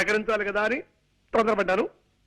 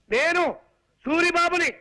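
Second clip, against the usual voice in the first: slightly raised, higher introduction; 4 semitones higher than usual. Acted. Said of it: "అంత గట్టిగా అరవకు నాయనా".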